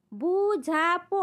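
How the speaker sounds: বু ঝা প spoken slowly as separate beats; syllable by syllable. Shown as a demonstration. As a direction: tap out বু ঝা প one syllable at a time. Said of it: "দল বিশ্লেষণ".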